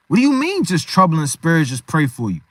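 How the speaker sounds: incredulous challenge. Acted. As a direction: throw the meek words back in disbelief. Friend challenges the meek reply.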